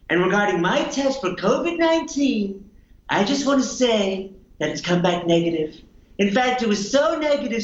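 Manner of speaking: lightly voiced Trump boasting; Donald Trump impression. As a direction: brag like Trump at a rally. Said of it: "impersonation of how the world is reacting".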